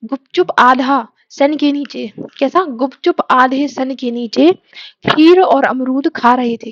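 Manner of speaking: slow, deliberate, words spaced apart; slow dictation. Shown as a demonstration. Teacher dictates the mnemonic slowly for students' notebooks. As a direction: dictate it slowly for note-taking. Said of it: "आपको लिखना है अपनी copy में".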